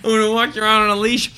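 high, fast mock voice; mocking put-on voice. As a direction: parody her in a squeaky rush. Mocking partner's line.

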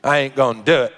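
low Arkansas twang, played for fun; Arkansas accent. Shown as a demonstration. Preacher imagines Jesus talking to Pharisees in Arkansas accent. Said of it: "talking in an Arkansas accent".

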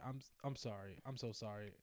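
soft mock apology; soft sheepish apology; meek apology. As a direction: shrink back apologizing. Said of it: "she's like".

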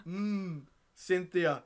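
brooding hum, then the name; mock-intense poet pulling back from a shout; hammed-up pensive delivery; slam poetry. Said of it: "I'm gonna perform this poem".

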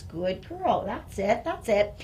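put-on a calm, steady good girl to a nervous dog; calm praise. Shown as a demonstration. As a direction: praise her gently and evenly, no fuss. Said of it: "praise the dog in a very calm voice".

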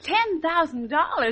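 ungläubig staunend nachgefragt; surprised echo. Acted. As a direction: asks it back, amazed and slowed. Lois echoes the prize amount.

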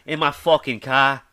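a hint of Boston; a light Boston accent, drawn out. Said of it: "Got the little Boston accent".

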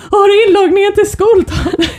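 high, loud, laughing question; laughing at herself. Retold or imitated. Mother texting the teacher at night, laughing high and loud. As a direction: ask through giggles at how absurd it is. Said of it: "så hysteriskt".

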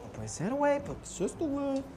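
high, mock Mexican güey; Mexican accent. Colombian guest mimics Mexican slang in Mexican accent. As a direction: ham up a Mexican friend's güey. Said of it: "allá vamos a imitar los acentos".

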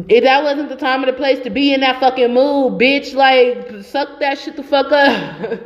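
high-pitched exasperated retort; irritated. Retold or imitated. Venting to podcast listeners about friends' sad talk, irritated. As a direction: raise the pitch and scold in mock exasperation. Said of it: "I was so irritated".

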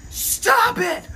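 very high, sudden yell; screaming sister. Retold or imitated. Sister catches brother with the kittens, screaming. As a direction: cry out high to halt him. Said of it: "she's screaming".

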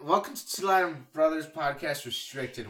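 mock-grand host welcome; mock podcast announcer. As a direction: announce the show as a joke, drawn out. Mock podcast show introduction.

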